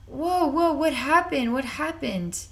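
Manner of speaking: a sudden jolt of alarm, then asking what happened; alarmed whoa. Retold or imitated. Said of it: "I was like".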